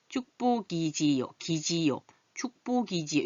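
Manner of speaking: 축복이지요 with ㄱ carried onto 이; 축복이지요 read slowly as chuk-bo-gi-ji-yo; linked pronunciation. Shown as a demonstration. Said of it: "이렇게 소리가 나요". (축복이지요를 축보기지요로 연음)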